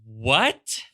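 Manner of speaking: mock bewilderment, pitch swooping up on the questions; baffled newcomer. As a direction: play a newcomer puzzled by the place. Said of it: "coming to Harrisonburg and being like".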